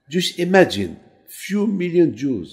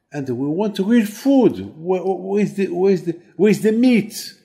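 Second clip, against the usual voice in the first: the Israelites griping at Moshe, a bit louder; mock whining complaint; 3 semitones higher, 4 dB louder than usual. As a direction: whine for real food like a spoiled crowd. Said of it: "they said to Moshe".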